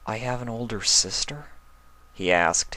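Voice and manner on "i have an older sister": calmer. Acted. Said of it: "his voice more calm".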